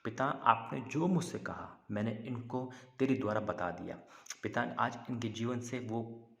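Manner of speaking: earnest prayer building in intensity; fervent prayer. Real, not acted. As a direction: plead with God, pressing each petition. Leads a prayer after preaching. (जोश भरी प्रार्थना)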